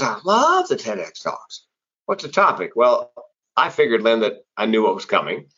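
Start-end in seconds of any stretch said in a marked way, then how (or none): 0.0-2.7 mock woman voice.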